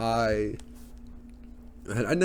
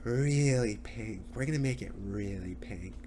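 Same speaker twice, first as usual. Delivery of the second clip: Kylie; 6 dB quieter than usual. Retold or imitated. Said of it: "she's just like".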